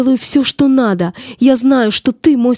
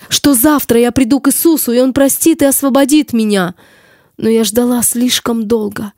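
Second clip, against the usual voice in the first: tragic heroine sorrow. Acted. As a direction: plead your lost cause, raised.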